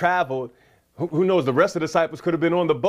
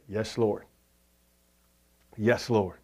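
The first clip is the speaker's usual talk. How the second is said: soft, low response of faith; hushed assent; 6 semitones lower, 7 dB quieter, slower than usual. Real, not acted. Preacher answers the Lord despite the impossible, hushed assent. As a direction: drop down low and quiet.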